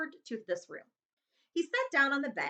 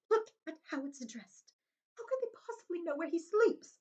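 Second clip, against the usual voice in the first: quivering; 8 semitones higher than usual. Acted. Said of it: "in a quivering voice".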